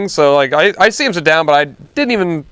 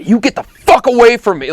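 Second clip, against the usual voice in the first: imitating an irate customer, higher; mock shout of an enraged man; retold angry shout; 5 semitones higher than usual. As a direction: act out the customer's angry outburst. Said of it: "he starts shouting at me".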